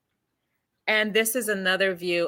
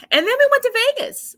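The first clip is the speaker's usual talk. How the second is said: much higher, louder and quick; excited; 7 dB louder, faster than usual. Real, not acted. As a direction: burst out with the big news. Excited shift to Vegas story.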